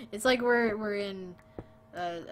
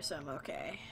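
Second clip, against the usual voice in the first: whispered aside; 5 semitones lower, 5 dB quieter than usual. Real, not acted. Reassuring chat aside.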